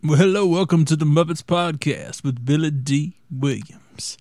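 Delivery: a hint of a suave crooner; Billy Dee Williams. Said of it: "I should be doing Billy D. Williams".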